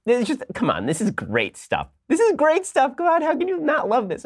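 squealing high with glee; can't contain the delight; gleeful delight. Real, not acted. Host reacting to the tweet, high gleeful squeal.

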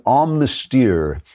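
slow, hammed-up French pronunciation; a deliberately clumsy French accent; bad French accent. Shown as a demonstration. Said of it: "that's my bad French accent".

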